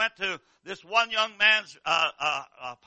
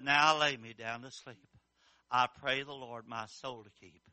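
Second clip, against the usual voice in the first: tender; 9 semitones lower, 8 dB quieter than usual. Acted. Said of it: "closed her little eyes and put her little hands together".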